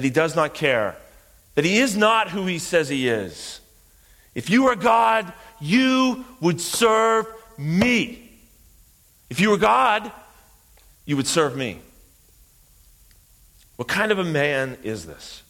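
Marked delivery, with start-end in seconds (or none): 4.3-11.8 high, drawn-out defiant shout; preacher acting out an arrogant challenge; railing demand. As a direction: rail upward, then drop on the last repeat. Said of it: "speak to God and rail against him".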